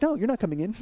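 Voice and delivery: high, loud mocking refusal; giggly girlfriend imitation. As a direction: taunt in a high, giddy voice. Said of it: "And she starts laughing".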